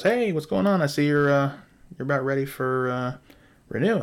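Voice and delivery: upbeat imitation of a company owner; breezy retold greeting. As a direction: imitate a chummy business call opener. Owner greets client in retold call.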